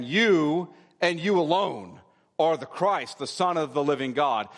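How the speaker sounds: deliberate, declarative "you and you alone"; emphatic YOU. Shown as a demonstration. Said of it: "It's something like saying".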